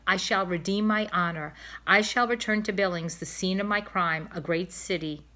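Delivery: a hint of a noble swan vowing to redeem his honor; pompous old swan. Old cob speaks grandly.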